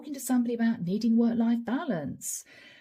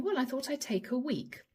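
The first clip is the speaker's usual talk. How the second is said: understated, lightly acted calm; 3 semitones higher, 3 dB quieter than usual. Employee telling the boss about a week off, mildly acted calm. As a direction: answer the flustered boss evenly. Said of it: "you very calmly saying".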